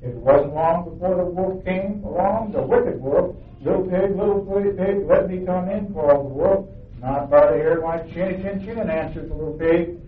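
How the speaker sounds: storybook reading to the congregation, voicing the pigs and wolf lightly; story narration. A narrator's reading. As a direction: read it like a bedtime tale for children. Reads children's story aloud.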